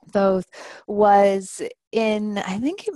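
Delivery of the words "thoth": Thoth as "thohth"; long-o pronunciation. Shown as a demonstration. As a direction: say Thoth with th at both ends and a long o. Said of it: "many different ways of pronouncing his name".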